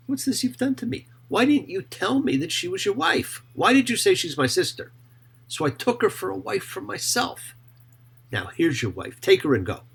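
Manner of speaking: a king scolding a liar; affronted Pharaoh confronting Abraham; indignant Pharaoh. Acted.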